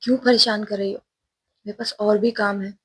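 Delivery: angry. Acted. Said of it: "गुस्से में आकर दरवाज़ा खोलती है और कहती है".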